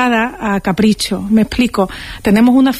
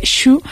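shushing interjection; 3 semitones higher than usual. Shown as a demonstration. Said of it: "interjección del sh".

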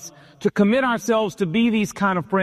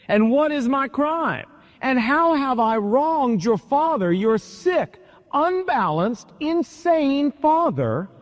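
higher, slowing on the insults to the father; distressed plea; 4 semitones higher than usual. Acted. David pleading with Jonathan over his father, desperate. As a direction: beg your friend to explain why his father hunts you.

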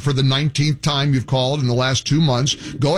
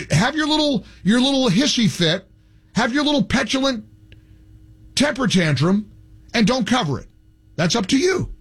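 mocking scorn; 5 semitones higher than usual. Real, not acted. Host mocking CNN.

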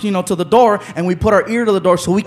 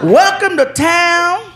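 excited man; 6 semitones higher, slower than usual. Retold or imitated. Man reading greeting card.

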